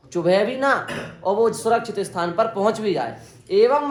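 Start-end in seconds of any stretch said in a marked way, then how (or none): 0.1-0.7 चुभे भी ना with ना lifted and louder; stress on ना. Shown as a demonstration. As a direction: hit ना as the point. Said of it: "वो इस प्रकार से पकड़ती है कि उसको चुभे भी ना". (ना पर ज़ोर)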